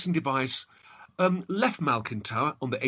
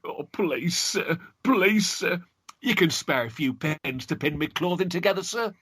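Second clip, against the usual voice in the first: put-on begging girl; 4 semitones higher than usual. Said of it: "Alison begged of him".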